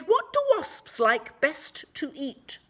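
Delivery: high, loud eager question; a baker bursting with an idea; cried out. A narrator's reading. The baker calls out to the villagers, high and loud. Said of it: "and cried".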